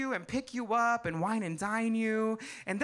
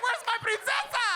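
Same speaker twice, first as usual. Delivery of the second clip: mock disappointed man; 12 semitones higher than usual. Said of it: "they're like".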